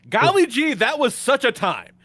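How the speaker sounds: put-on high, gee-whiz kid voice; wholesome 1950s kid. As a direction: gush like an old-timey kid. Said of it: "they're like".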